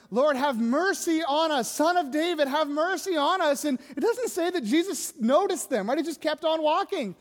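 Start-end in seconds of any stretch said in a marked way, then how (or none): 0.1-3.6 calling out. Acted. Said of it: "they're calling out to Him".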